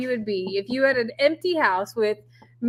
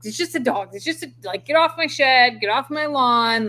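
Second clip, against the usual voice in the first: mock grouchy old man, louder at the end; 4 dB louder than usual. Wife mocking husband as grouchy old man, lightly hammed. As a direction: imitate husband as a cranky old man yelling at kids. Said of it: "That's what you sound like".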